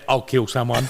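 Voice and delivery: Sly's "I'll kill someone" said through a laugh; laughing quote from Sly. Retold or imitated. Mate joking about garbage truck job, laughing. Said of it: "And Sly goes".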